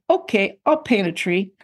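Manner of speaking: a mildly defiant "okay, I'll paint a tree"; grudging, half-hearted compliance with a touch of sass; child sassing a strict teacher, mild attitude. Retold or imitated. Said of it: "having this attitude and going".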